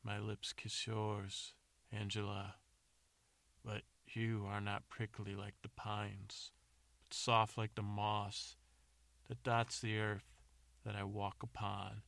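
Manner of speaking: slow, measured mock love poem; terrible love poetry. James reciting poetry that makes the beast suffer, mock-romantic. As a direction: recite bad romantic verse in drawn-out phrases. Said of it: "suffering from the terrible poetry".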